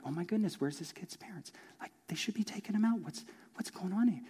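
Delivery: soft disapproving whisper; whispered gossip. Retold or imitated. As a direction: hush it like parents judging in the row. Parents murmuring disapproval nearby.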